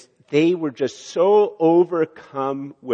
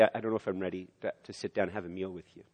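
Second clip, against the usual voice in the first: hesitant refusal; 4 semitones lower, 9 dB quieter, much faster than usual. Pretend. Gentler refusal contrasted with outburst.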